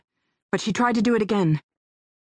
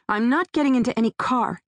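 a higher, firm flat refusal; flatly; 5 semitones higher than usual. Acted. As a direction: refuse without budging. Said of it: "she said flatly".

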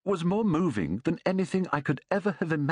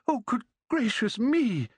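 put-on much higher, giddy old man's cry; old man exclaiming; 11 semitones higher than usual. A narrator's reading. Overjoyed old man greeting his grandson's friend, exclaiming high. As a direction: burst out in delighted disbelief.

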